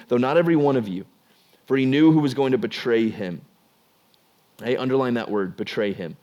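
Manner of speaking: steady read-aloud of the Bible passage; measured scripture reading. Acted. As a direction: read the passage plainly to the congregation.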